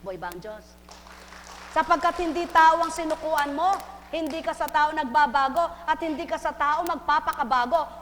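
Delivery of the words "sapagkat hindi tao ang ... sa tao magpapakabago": fervent preaching. Acted. Preacher exhorting the congregation.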